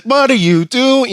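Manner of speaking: high, slow disbelief; can't believe the pass; incredulous. Retold or imitated. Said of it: "He's like".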